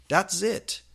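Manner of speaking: high, loud fed-up outburst; angry shout. Acted. Teacher losing patience with the class, angry shout. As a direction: explode at them. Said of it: "shooted angrily".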